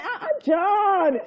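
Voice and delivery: drawn-out, slow laughing "ah, ah, John"; laughing exclamation. Retold or imitated. Reacting to a worker's reply, slow and laughing. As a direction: say it slowly through a laugh.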